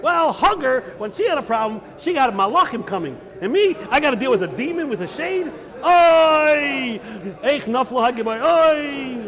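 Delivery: a touch of theatrical sobbing, not real tears; mock lament. Reb Shimon laments to the demon, mock wailing. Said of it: "Reb Shimon starts bawling and crying".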